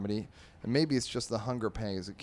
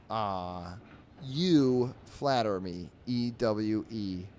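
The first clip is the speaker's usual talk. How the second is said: artist voice; much slower than usual. Acted. Artist answers mouse.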